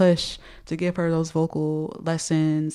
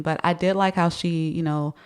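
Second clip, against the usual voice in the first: wearing a retainer. Real, not acted. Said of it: "if I sound funny, it's because I have my retainers in".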